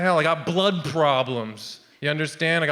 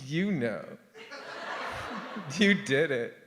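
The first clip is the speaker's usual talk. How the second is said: low, much softer muttered accusation; quiet; 3 semitones lower, 9 dB quieter, slower than usual. Retold or imitated. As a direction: mutter it back, wounded. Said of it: "I was like".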